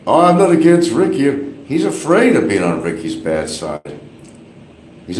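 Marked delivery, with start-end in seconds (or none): 0.1-1.5 high, louder mocking whine; making fun of Barry backing off Ricky, high and loud. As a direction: imitate his backpedalling, pitched up. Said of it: "then I think he started jumping".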